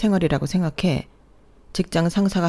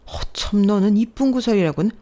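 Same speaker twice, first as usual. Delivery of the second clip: berating mother-in-law; 3 semitones higher than usual. Acted. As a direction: tear into her for talking back. (며느리를 나무라는 시어머니의 화난 목소리)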